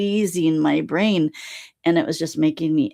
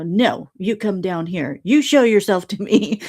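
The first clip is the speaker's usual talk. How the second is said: defiant retort; 3 semitones higher, 3 dB louder than usual. Retold or imitated. Retold argument with Alon.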